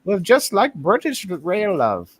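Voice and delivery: a quick high put-on British lady accent, slowed down; British lady impression. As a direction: echo the British stewardess line in her accent. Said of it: "that was a Scottish brogue".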